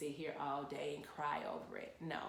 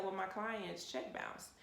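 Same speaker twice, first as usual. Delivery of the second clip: mock-arrogant retort, slowed down; smug and dismissive, taking it slow; imitating her own arrogant young self; 3 semitones higher, slower than usual. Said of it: "very arrogantly said".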